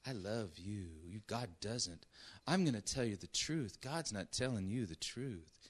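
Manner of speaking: the serpent sweet-talks the woman with syrupy lies. Acted. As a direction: coax her like a sweet-talking snake. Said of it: "you can almost hear him say it, syrupy, drippy lies".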